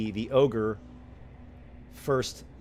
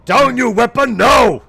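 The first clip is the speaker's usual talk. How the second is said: much higher, louder ogre roar; ogre shouting; 13 semitones higher, 17 dB louder than usual. Acted. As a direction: roar the order at full force. Ogre shouting order again.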